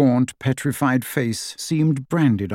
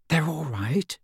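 whispered; 5 semitones higher, 6 dB quieter than usual. A narrator's reading. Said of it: "she whispered".

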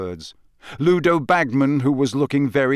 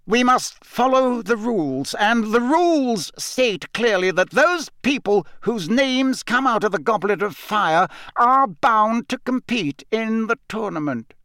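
curt; 9 semitones higher than usual. A narrator's reading. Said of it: "it was in his usual curt voice".

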